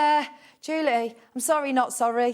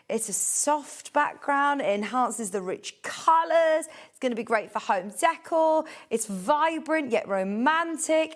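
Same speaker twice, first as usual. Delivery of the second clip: slow, drawn-out product showcase; sales pitch; 2 semitones higher, slower than usual. Acted. Shopping presenter describes fabric to viewers, slow lush sales pitch. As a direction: savour each selling point, stretching the key words.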